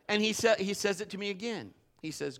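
ordinary talk

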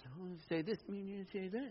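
soft, sing-song back and forth; lightly volley the lines like a tennis rally; a hint of a couple trading jabs; mock bickering. Mimicking tennis-match argument.

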